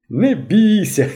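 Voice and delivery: high, slow, amused comfort; laughing reassurance. A narrator's reading. Polivoi calms the blushing boy, laughing. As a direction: chuckle him out of fear. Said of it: "засміявся Поливой".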